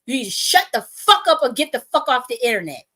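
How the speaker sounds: high, loud, exasperated telling-off; imitated pissed-off scolding. Man telling her to get offline, imitated angry scolding. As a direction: act out a fed-up protector laying down the law. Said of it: "'cause he was pissed".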